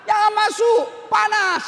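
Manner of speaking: a villager shouting a panicked warning at a stranger; shouted warning. Retold or imitated. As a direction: yell at him not to go in. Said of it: "Dia mau teriak".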